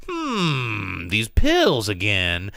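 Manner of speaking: lightly acted detective musing, drawn out; slow mock pondering with a long hmm; Guy Pearce. Detective finds the hitman's pill bottle, slow mock pondering. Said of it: "And Guy Pearce is like".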